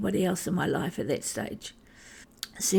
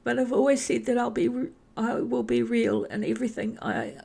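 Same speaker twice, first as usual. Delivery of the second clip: still emotional; 3 semitones higher than usual. Real, not acted. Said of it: "Sorry, this is an emotional memory for me".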